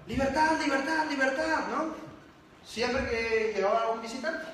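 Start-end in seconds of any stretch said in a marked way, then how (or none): 0.1-1.7 higher, sing-song parrot cry of "Libertad"; parrot squawk. Retold or imitated. Speaker voicing the caged parrot's cry to the audience, high squawk. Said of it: "Este lorito gritaba".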